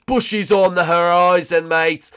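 loud, high, drawn-out call; hammed-up holler. Gamer announcing Bushy on the horizon, hammed-up holler. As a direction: holler it slowly like a mock lookout.

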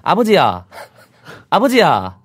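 lightly voiced child calling out; child calling father. Boy on the train calling his father, a hint of a child's voice. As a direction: call out like a seven-year-old to his dad. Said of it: "혼자 말을 하는데 아버지한테".

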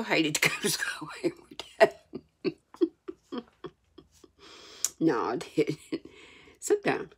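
soft laughing whisper; whispered aside. Real, not acted. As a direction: whisper it like a secret. Joking confession aside.

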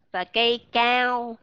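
"cao" slow with a long open a; "cao" drawn out, full open vowel. Shown as a demonstration. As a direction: stretch the a in "cao". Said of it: "là khác nghĩa với nhau".

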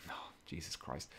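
ordinary delivery

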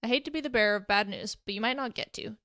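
dry, croaky voice; croaking. Acted. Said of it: "Danny croaked from the front".

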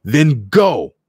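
high, loud angry dismissal; shouted. A narrator's reading. Soldier ordering the two women off, angry shout. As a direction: shout them away. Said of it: "Toto shouted".

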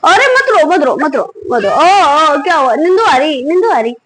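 sing-song cooing that swoops up and down. Real, not acted. Mother soothing her crying, sleepy baby, cooing baby talk.

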